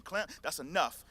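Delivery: a hint of a strict fifth grade teacher; stern teacher. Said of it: "this stern teacher face".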